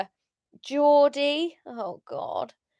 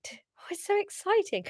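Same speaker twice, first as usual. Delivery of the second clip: ordinary delivery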